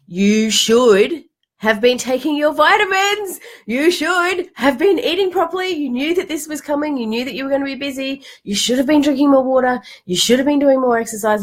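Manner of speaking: lightly voiced scold, pitched high; scolding inner critic. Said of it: "And I go, you know, here's the other one".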